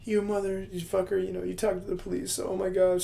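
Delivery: high upset outburst; upset wife. Retold or imitated. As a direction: berate him, pitched high. Wife furious then starts crying.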